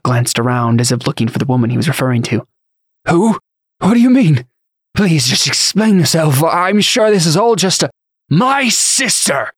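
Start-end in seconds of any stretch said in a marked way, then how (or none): 3.1-7.9 high-pitched, flustered protest; panicked bewilderment. A narrator's reading. Frightened bishop begging to explain. 8.3-9.5 high, drawn-out cry of outrage; screamed outburst. A narrator's reading. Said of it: "Dylan screamed".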